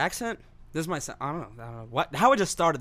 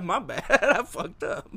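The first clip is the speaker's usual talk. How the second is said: high, slow laughing confession; 4 semitones higher, slower than usual. Acted. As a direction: laugh it out, mock sorry. Laughing mock apology.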